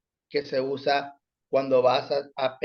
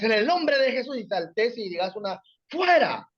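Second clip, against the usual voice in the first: mock battle cry; 5 semitones higher than usual. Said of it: "puede que haya en el afán de la guerra".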